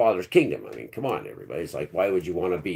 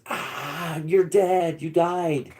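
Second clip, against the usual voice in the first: mock girlfriend voice, pitched higher; imitating girlfriend; 10 semitones higher, much slower than usual. Girlfriend telling him he died, high mock voice. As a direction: play the frantic girlfriend lightly. Girlfriend quoted while driving.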